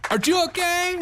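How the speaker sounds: very high, exaggerated Hispanic accent; mock Hispanic accent. Host parodying the politician's concern, mock Hispanic accent. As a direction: pitch up a hammed-up Hispanic accent. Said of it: "I just love this accent so much".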